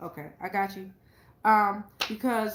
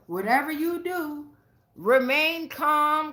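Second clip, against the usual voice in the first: higher, slow warning cry of remain calm; mock scream; 5 semitones higher, slower than usual. Spirits warning the listener, mock high scream. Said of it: "And they screaming".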